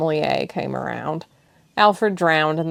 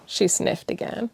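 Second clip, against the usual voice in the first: plain reading voice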